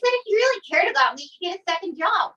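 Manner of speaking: high, mock-indignant retort. Girlfriend retelling her demand to boyfriend, high and indignant. Acting out a breakup argument.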